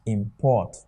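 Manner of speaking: Import as a verb, im-PORT; Import, first syllable unstressed, second stressed. Shown as a demonstration. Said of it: "it will pronounce as what?".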